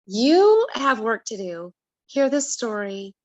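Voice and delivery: lightly voiced God giving orders; God speaking. God telling her to sit and listen, firm and commanding. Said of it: "this is God saying".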